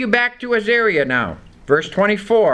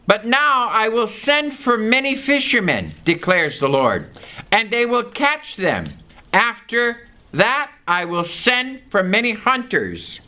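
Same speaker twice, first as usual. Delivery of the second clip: a slightly raised, measured Bible reading; scripture reading; 4 semitones higher than usual. Acted. Preacher reading Jeremiah to the congregation, measured and raised. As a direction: read the verse out to the congregation.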